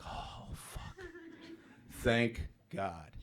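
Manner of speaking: hushed, breathed-out relief; acted relief. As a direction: exhale the words in mock relief. Retold relief as he steadies.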